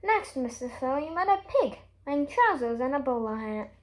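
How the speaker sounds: usual speaking voice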